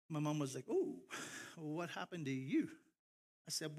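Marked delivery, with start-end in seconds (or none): 0.7-2.7 acted surprise. Mom to her son just home from camp, acted surprise. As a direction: imitate a mom taken aback.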